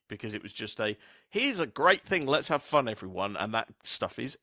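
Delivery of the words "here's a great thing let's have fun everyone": higher, louder burst of enthusiasm; rally the crowd with mock cheer; upbeat performer. Performer urging everyone to have fun, upbeat.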